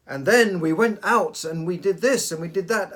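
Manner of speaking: sing-song the story line to show how to avoid a monotone; exaggerated rising and falling intonation. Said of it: "And then he went down again and up and down".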